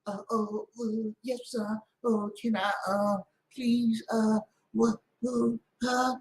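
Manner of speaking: soft, halting stammer; mock meek man. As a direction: fumble timidly for words, imitating a submissive husband.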